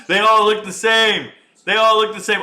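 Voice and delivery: loud amused outburst; loud exclaim. Real, not acted. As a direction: shout it at the screen. Repeats line, then shouts it.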